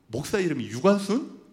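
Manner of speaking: 유관순 asked with a laugh and a rising question; laughing disbelief. Retold or imitated. Teacher mishearing the pastor's name, laughing. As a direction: chuckle through the name 유관순?. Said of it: "그 선생님이 막 하 웃는 거예요".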